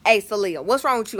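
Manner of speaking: imitating mom calling her child; firm mock-mama questioning; black mama voice. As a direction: put on your mama's voice. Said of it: "my black mama voice".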